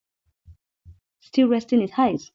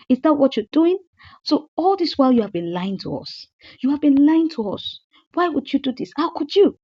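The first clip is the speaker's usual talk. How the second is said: 아내 흉내로, 높고 큰 소리로 따지듯; mock furious wife scolding her lying husband; imitated angry venting; 4 semitones higher than usual. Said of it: "She vented all her anger".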